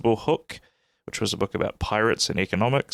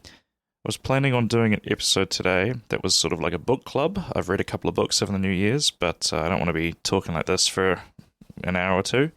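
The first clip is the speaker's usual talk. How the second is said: voice hoarse from a cold. Real, not acted. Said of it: "coming off the end of a bit of a cold".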